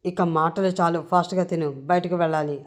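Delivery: understated bark of an order; a touch of a sudden yell; mild mock shout. Srinu orders Ammu to hurry eating, mild mock shout. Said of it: "ఒక్కసారిగా గట్టిగా అరిచి చెప్తాడు".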